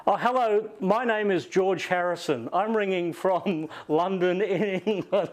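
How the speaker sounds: high, light Liverpool accent impression; imitating a Liverpudlian caller with a laugh; a musician's Liverpudlian accent. Interviewer mimics a musician's phone call, high Liverpool accent. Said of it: "Liverpudlian accent".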